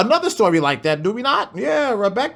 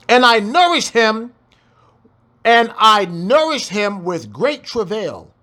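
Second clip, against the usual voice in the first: scripture reading; 3 semitones higher than usual. Acted. Reads scripture aloud.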